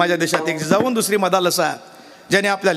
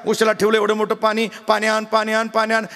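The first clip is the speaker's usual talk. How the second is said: angry scolding. Retold or imitated. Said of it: "मग मात्र तिचं मस्त गरम झालं".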